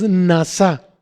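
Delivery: "nasá" stressed on its last syllable; stress on final A. Shown as a demonstration. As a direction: put the accent on the final A of "nasá". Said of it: "con acento en la A".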